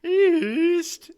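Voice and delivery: high wailing ghost question; shrill ghostly "East?". Acted. Ghost answers.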